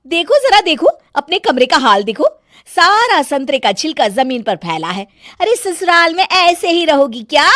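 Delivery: high, loud complaining bahu voice; bossy bahu fussing over nothing; nagging daughter-in-law. Acted. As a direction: scold the whole family, shrill with irritation. Megha boasts and scolds.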